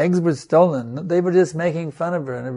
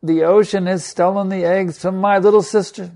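rising fervour; 4 semitones higher, 5 dB louder than usual. Acted. Garuda's anger at ocean builds.

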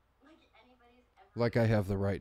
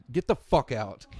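mock outrage; 4 semitones higher, 7 dB louder than usual. Mock outrage over Chris Kattan.

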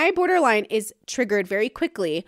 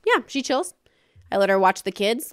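casual brother; 3 semitones higher than usual. Retold or imitated. Brother telling therapist relatives she's fine, casual. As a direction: shrug it off like a chill farm guy. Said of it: "And Farm Brother goes".

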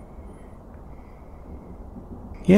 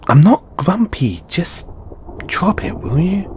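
raised, grumpy protest; huffy and defensive; irritated denial; 9 semitones higher than usual. Acted. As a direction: deny it testily, pitch jumping up. Irritably denies being grumpy.

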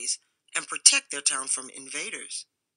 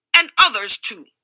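grumbling agreement; 5 semitones higher, 11 dB louder than usual. A narrator's reading. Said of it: "grumbled Rufus".

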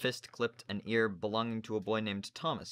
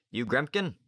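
gruff sailor; 5 semitones higher, 6 dB louder than usual. Acted. Narrator voices Slank.

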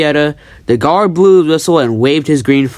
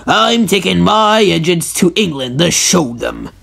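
slow, raised-voice proclamation; stately, higher-pitched declaration; grand announcement; 4 semitones higher than usual. Acted. Fat Controller announces plan.

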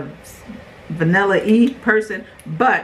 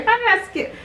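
mock shock. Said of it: "I was about to say".

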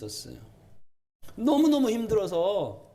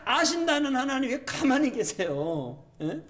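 high-pitched, insistent pleading questions; plaintive, piled-up grievances; aggrieved complaint to God; 8 semitones higher than usual. Acted. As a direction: protest to God like a hurt believer. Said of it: "그런 마음 들 때가 있으시죠?".

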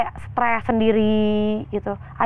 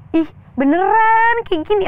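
retold crying; 10 semitones higher, 5 dB louder, slower than usual. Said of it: "aku nangis kayak".

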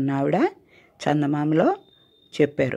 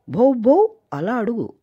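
puppy voice; 8 semitones higher, 4 dB louder, slower than usual. Acted. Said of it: "ఇదిగో నా భాషలో అడుగు".

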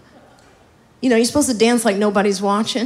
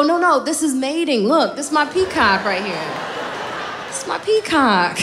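playful protest; 6 semitones higher than usual. Retold or imitated. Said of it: "I go".

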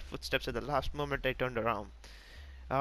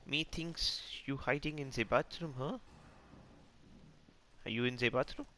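mock German accent; 4 dB quieter than usual. Player hunting an enemy in the bathroom, mock German accent. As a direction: put on a playful German accent, saying "ze".

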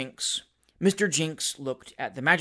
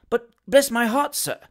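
high, louder indignant protest; amazed and indignant; 6 semitones higher, 4 dB louder than usual. A narrator's reading. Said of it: "was all amazement and indignation".

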